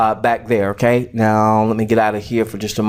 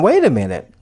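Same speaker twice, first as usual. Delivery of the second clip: excited realization; 7 semitones higher than usual. Retold or imitated. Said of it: "I'm saying".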